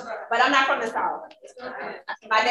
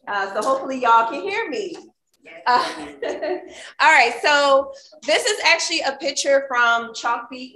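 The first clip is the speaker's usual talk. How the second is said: teacher voice; 2 semitones higher, 5 dB louder than usual. Real, not acted. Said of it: "I am gonna use my teacher voice".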